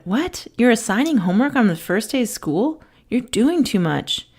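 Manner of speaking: a student balking at homework; indignant student. Retold or imitated.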